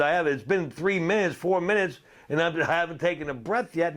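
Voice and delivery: high, strained telling; lightly acted breathless self; retold gasping reply. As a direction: voice himself struggling for air. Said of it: "I said".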